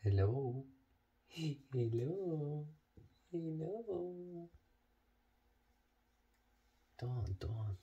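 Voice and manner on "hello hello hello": rising hello. Acted. Calling the dog, rising.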